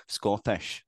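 lightly put-on Scottish; tentative mock Scottish; Scottish accent. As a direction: try getting into a Scottish accent. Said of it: "we gotta get Scottish".

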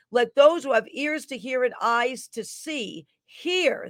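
fervent prophetic declaration; prophetic proclamation. Acted. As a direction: proclaim it like a prophet over the crowd. Reads a prophetic word.

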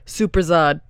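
loud New Jersey Italian-American pronunciation; New Jersey dialect. Retold or imitated. Explaining a word stuck in the head, New Jersey accent. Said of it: "That's how they say".

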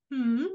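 high, sassy hmm with attitude; a snooty, put-out hmm. Retold or imitated. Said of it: "like he's got this attitude".

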